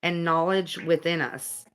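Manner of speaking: earnest, measured narration; guidebook reading. Acted. Reading about an angel's visit to viewers, earnest read-aloud. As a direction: read it out with deliberate phrasing.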